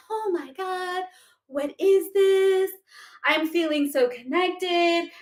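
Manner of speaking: high, drawn-out dreamy awe; hammed-up spiritual bliss; mock wonder. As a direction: gush slowly in exaggerated amazement. Mimics awestruck newly awakened people.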